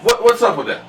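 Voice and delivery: mock angry rant. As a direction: tear into the troll, half joking. Cussing out a troll on stream.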